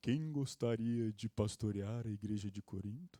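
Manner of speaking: deep, very low radio announcer voice. Retelling how a professor suddenly turned to the class; radio announcer voice. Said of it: "Com a voz de locutor de rádio".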